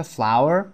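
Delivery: flower said like flower, FLOW-er; flower pronounced exactly like the flower; flour pronunciation. Shown as a demonstration.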